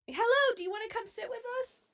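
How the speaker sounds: fast, high stage whisper; loud whisper. Acted. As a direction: hiss the invitation across the room. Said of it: "wave at Gouda".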